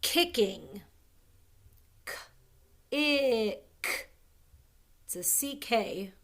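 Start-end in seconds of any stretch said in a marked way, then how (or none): 2.0-4.1 "K-ick" split into a lone K, stretched short I, clicked final K; sounding out. Shown as a demonstration. Teacher helping pupils spell kick, sounding it out. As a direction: break "K-ick" into separate sounds.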